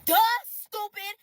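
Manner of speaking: slow, loud mock insult; mocking scorn. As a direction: drag out the scorn. Mocking the texter.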